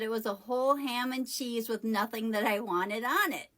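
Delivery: retold in a lightly joking way; a touch of teasing, not snotty; kind of joking. Customer answering what the sandwich was, kind of jokingly. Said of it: "saying it kind of jokingly".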